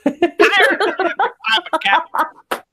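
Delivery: high hammed-up pirate, laughing. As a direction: ham up a pirate captain. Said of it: "I want to be a pirate".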